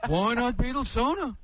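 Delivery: fast, observational whine; a quick what's-the-deal comic; Jerry Seinfeld impression. Comic doing Jerry Seinfeld for the caller, a quick riff. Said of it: "You know Jerry Seinfeld?".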